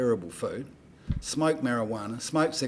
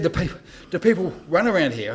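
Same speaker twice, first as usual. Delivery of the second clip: higher, louder mock singer voice; imitating a singer; 6 semitones higher, 5 dB louder than usual. Storyteller voicing the singer asking about the oval, mock. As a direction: lightly put on singer's voice. The singer's question retold, far voice.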